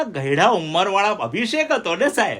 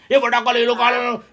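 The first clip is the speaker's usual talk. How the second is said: a mild imitation of a hawker's call, a bit higher; vendor calling; 5 semitones higher than usual. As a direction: lightly mimic a vendor calling out. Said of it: "જોરથી". (ફેરિયાની હળવી નકલ, થોડા ઊંચા સૂરે)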